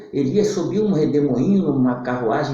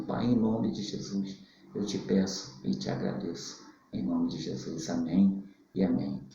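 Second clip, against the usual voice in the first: prayer. Acted. Preacher praying for everyone who heard the audio, hushed prayer.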